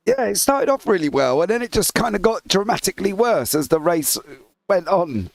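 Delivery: hoarse, croaky frog voice. Real, not acted. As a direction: speak through a croaky throat. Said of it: "I also sound like a croaky frog".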